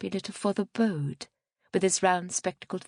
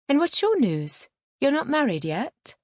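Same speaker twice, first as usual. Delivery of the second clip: higher, lifted questions; rather bright; 7 semitones higher, 4 dB louder than usual. A narrator's reading. Woman asking an old acquaintance for news, rather bright. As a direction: ask it brightly, louder and higher. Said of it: "I asked rather brightly".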